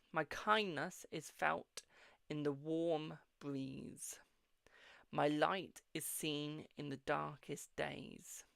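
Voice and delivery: slow, lingering reading of an affirmation; measured mystic reading voice; slow card reading. Acted. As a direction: read it out like a gentle oracle. Reads the positive card message.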